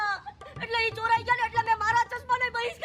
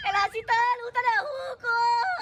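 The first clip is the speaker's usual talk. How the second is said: comic crying; slower than usual. Acted. Uncle weeps telling his woes.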